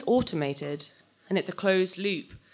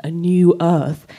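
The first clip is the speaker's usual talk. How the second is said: slow and louder, in wonder; rapt exclamation; 8 dB louder, slower than usual. Acted. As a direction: let the dream swell out. Dreaming of the space commune.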